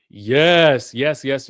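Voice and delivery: a loud, emphatic cheer; loud yes. Real, not acted. Host cheering along with chat, loud. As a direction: hype it up.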